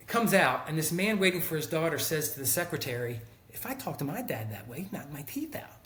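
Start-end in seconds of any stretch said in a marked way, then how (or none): 3.5-5.8 retold father's remark dropping to a whisper; hushed aside. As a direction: murmur it like a shocked bystander.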